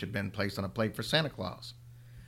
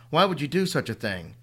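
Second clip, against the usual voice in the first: louder, higher shout; 4 semitones higher, 4 dB louder than usual. Acted. Mother shouting at her son. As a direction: shout it into his face. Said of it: "she shouted into his face".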